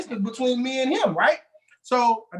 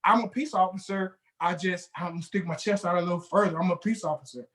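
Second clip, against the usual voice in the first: lower, puffed-up peace officer; pompous officer; 3 semitones lower than usual. Retold or imitated. Mocking a coworker to a friend, puffed-up and low. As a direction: puff your chest out and announce your badge. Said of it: "I've worked with people who just".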